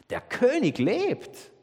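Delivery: laut und hoch jubelnd ausgerufen; verkünde es voller Triumph. Real, not acted. Osterbotschaft, jubelnder Höhepunkt. (freudig verkündet)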